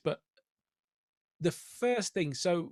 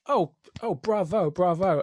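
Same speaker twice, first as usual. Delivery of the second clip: fake enthusiasm; 4 dB louder than usual. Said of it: "And you're like".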